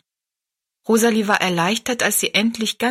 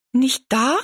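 disappointed; 6 semitones higher than usual. Acted. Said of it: "rief Rosalie enttäuscht aus".

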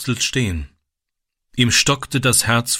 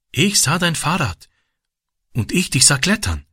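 shy; 4 semitones higher than usual. A narrator's reading. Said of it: "sagte Ram schüchtern".

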